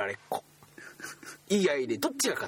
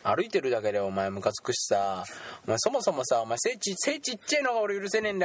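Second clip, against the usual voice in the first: mock bully; 3 semitones higher than usual. Playing the bully in improv.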